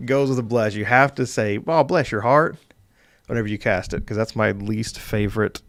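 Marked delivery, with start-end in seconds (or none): 1.7-2.6 lightly put-on Southern accent, higher pitch. DM shows what a Southern Bless caster must say, light Southern accent. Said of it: "anyone with a Southern accent".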